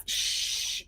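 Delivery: breathy shush to the dog; whispered hush. Real, not acted. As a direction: hush it under your breath. Hushing dog.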